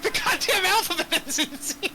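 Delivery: laughing, high exasperated cry; exasperated outburst. Retold or imitated. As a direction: blurt it out, laughing in disbelief. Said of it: "And I'm like".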